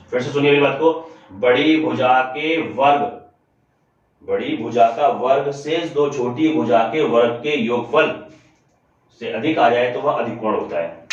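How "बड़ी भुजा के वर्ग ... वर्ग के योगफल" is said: slow, measured teacher restating a rule; slow, deliberate repetition. Real, not acted. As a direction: spell the rule out slowly, phrase by phrase. Teacher repeats the key rule. (धीरे-धीरे, ज़ोर देकर दोहराते हुए)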